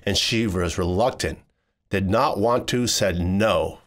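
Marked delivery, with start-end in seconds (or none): none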